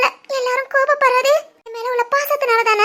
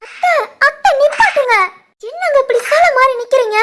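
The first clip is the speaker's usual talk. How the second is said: frantic pleading; 3 semitones higher than usual. Acted. Wife begs aunt to stop beating.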